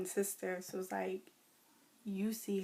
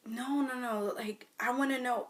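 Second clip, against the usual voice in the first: pushy manager; 4 semitones higher than usual. Retold or imitated.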